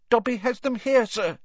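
high, pleading little elf; squeaky anxious house elf. Acted. Dobby the elf speaking.

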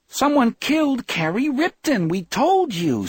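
put-on high, exasperated girl's voice; impatient cry. A narrator's reading. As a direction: cry it out as if Mom is being dense. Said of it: "Susie cried impatiently, as if her mother were the dumbest thing".

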